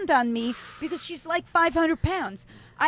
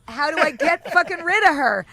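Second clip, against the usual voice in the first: retold exasperation; 7 dB louder than usual. Retelling own exasperation at the sitter.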